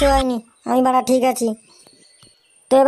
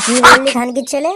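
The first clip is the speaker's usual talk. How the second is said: angry yell; 5 dB louder than usual. Acted. Wife yells at husband.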